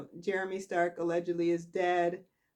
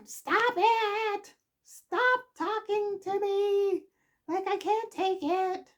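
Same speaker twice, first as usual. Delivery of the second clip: much higher, louder, pleading mock distress; hammed-up overwhelmed plea to be left alone; distraught Summer; 14 semitones higher, 4 dB louder, slower than usual. Summer begging Daniel to stop, high hammed-up distress.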